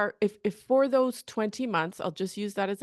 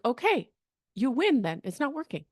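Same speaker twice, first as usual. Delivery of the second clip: mock concession; 4 semitones higher than usual. Coach pretending to let job seeker win, mock concession. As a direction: concede the argument lightly, tailing off.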